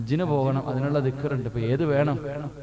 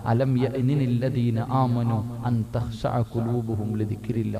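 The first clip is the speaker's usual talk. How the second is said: Quran recitation; 5 semitones lower, slower than usual. Retold or imitated. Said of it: "ഉമ്മ ഖുർആൻ ഓതുകയാ".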